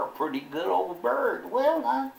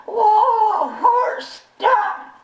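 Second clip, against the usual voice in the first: high, loud yell breaking into a laugh; laughing panicked yell; 12 semitones higher, 7 dB louder, much slower than usual. Retold or imitated. Jasper yelling at the horse again, laughing. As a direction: shout whoa at the horse, laughing through it. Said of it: "I yelled".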